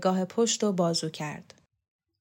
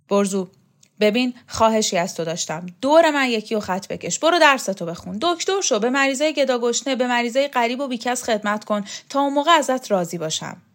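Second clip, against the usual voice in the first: put-on louder, gruff old champion; Shokat's voice; 3 semitones higher, 5 dB louder than usual. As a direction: brush the boy off, irritated. Shokat pleading with Borzu.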